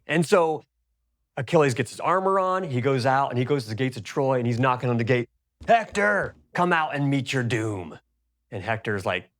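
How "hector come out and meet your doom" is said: challenging shout. Acted. Achilles at Troy's gates calls Hector out, shouting. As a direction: bellow a challenge at the city gates.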